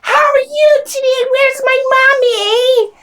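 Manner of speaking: put-on high, sing-song kids' show host voice; chirpy children's presenter, stretched out; Miss Rachel impression. Mimicking a kids' TV host for the podcast co-host, high and sing-song. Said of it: "Kids walk around talking like that".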